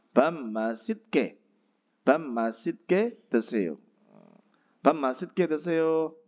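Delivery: slow, clear bam masjid ke deseo; model pronunciation. Shown as a demonstration. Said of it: "Itu cara pelafalannya ya".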